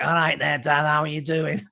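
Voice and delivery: imitating a kid's Salford accent; light Mancunian accent impression of a child; a singer. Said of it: "she was like Liam Gallagher".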